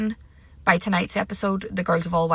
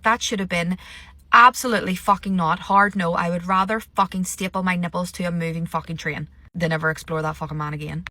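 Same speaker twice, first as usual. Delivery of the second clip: fuming rant. Retold or imitated. Imagined rant at Angie.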